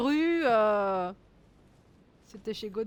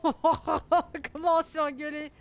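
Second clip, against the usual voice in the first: laughing; 3 semitones higher, slower than usual. Real, not acted. Laughing at the game argument.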